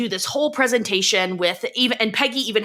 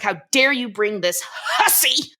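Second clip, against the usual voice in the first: a quick mock yell at a cheating husband; "How dare you" fast and shouted, stressing "dare"; retold yelling. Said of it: "and she's yelling".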